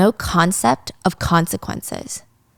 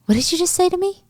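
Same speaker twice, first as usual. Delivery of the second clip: angry; 10 semitones higher than usual. Acted. Chief offended by accusation.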